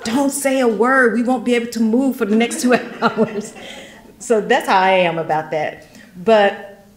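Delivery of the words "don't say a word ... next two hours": mock husband shushing. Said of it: "he's like".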